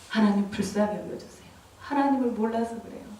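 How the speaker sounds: hushed prayer for mercy; pleading intercession. Retold or imitated. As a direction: pray softly on others' behalf. Re-enacted intercession for others. (작은 소리로 불쌍히 여겨 달라 간구하듯)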